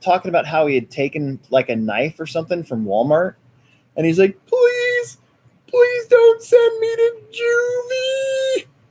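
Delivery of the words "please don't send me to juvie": acted tearful begging, very high, slow and drawn-out. Retelling a kid begging not to be sent to juvie, imitating a crying kid. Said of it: "he started crying".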